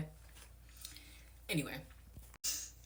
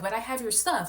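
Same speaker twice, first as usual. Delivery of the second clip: mocking the host; 7 semitones higher, 5 dB louder than usual. Voicing the host.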